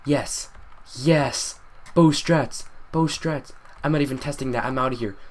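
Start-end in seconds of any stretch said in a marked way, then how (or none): 0.0-3.5 excited cheer. Real, not acted. Gamer celebrating a close escape, excited. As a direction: call it out in triumph. Escaping danger after winning totem.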